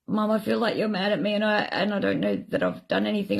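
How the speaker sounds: put-on high-pitched child voice; small, high voice of a daughter; little girl. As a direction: imitate a worried little girl talking to mum. Voices her little girl complaining.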